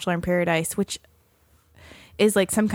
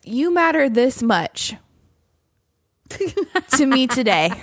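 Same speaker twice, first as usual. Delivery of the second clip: imitating little sister; 3 semitones higher, slower than usual. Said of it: "show you what my sister does".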